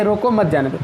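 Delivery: slight break between "रोको" and "मत जाने दो"; comma after रोको. Shown as a demonstration. Teacher showing the written order, comma pause after "रोको". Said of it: "ये रोको के बाद कामा लगा है".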